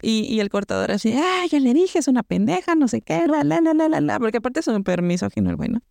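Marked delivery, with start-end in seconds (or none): 1.1-4.2 a sneering rant, tossed off in la-la-las; mock ranting cutter. Mocking the misogynist cutter who kept shouting, high mock rant. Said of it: "lo seguía gritando".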